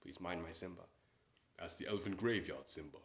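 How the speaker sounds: Mufasa impression. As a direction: warn the cub gently but firmly. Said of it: "I can also do Mufasa".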